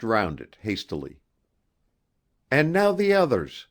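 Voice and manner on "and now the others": a lightly raised, eager exclaim. Acted. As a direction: call it out with mild eagerness. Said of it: "she exclaimed".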